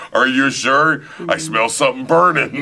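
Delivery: high, loud alarmed worry; nervous son. Retold or imitated. Son smells burning on plane, high alarmed. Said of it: "son on plane".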